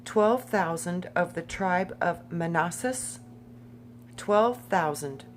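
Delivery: emphatic, list-like read-aloud; measured Bible roll call; scripture reading. Acted. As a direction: read out each tribe deliberately, lifting at phrase ends.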